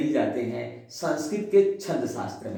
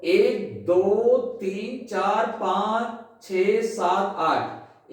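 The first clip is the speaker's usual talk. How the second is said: counting syllables; 3 semitones higher, slower than usual. Shown as a demonstration. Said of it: "देखें आप".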